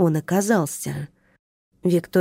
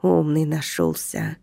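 тише и медленнее, изменённым голосом; буркни себе под нос; проворчал; 3 dB quieter than usual. Acted. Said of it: "проворчал нарушитель". (нарушитель ворчит на начальника)

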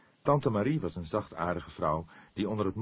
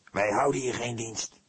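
irritably snapping, somewhat higher; testy; 5 semitones higher, 4 dB louder than usual. A narrator's reading. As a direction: bite back crossly. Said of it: "reageerde hij kribbig". (kribbig, licht geïrriteerd)

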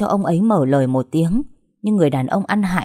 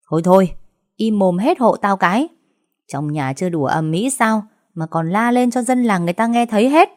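snapping at everyone; 4 semitones higher than usual. Acted. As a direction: shut them all up with a bark. Grandmother silencing the quarrel.

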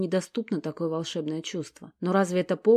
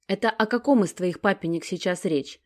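mock confusion. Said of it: "ломает комедию Алекс".

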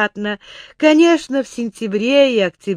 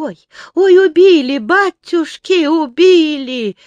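terrified wail; 10 semitones higher, 6 dB louder than usual. A narrator's reading. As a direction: howl in panic as they throw you. Stolnik thrown into pond.

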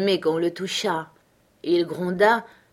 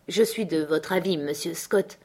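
solemnly. Acted. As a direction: speak it like a verdict. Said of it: "dit avec solennité".

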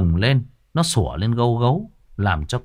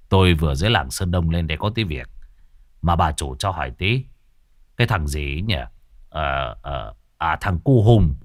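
lightly voiced rough country man; a hint of a gruff, offhand man; Cậu Sáu; 6 semitones lower than usual. (giọng cậu Sáu thô, hơi trầm)

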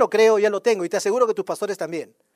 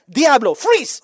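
orden al diablo; 3 semitones higher, 6 dB louder, much slower than usual. Shown as a demonstration. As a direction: shout it like calling a freeze in a game. Demuestra cómo ordenar al diablo. (orden fuerte y aguda de congelarse)

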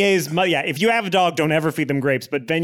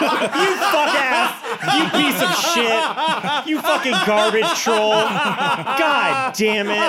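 cracking up while cursing; high-pitched laughing insults; laughing mock outrage; 8 semitones higher, much slower than usual. Real, not acted.

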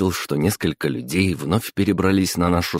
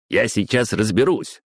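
growling; 5 semitones higher than usual. Acted. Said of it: "рыкнул он в ответ".

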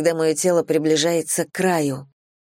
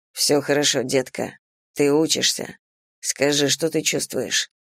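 lower, gentle male voice; a hint of soothing approval; reassuring; 3 semitones lower than usual. Man comforting his lover, reassuring.

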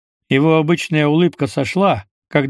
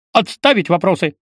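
shouting drill sergeant; 4 semitones higher, 3 dB louder than usual. Acted. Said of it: "рявкнул Пейн, копируя неизвестного майора".

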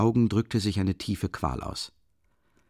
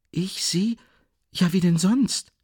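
much higher, whispered then bursting louder; plaintive outburst; 10 semitones higher, 3 dB louder than usual. Acted. Sonja wails that of course she loves her stepmother. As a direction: cry it out in anguish. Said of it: "stieß Sonja wie klagend hervor".

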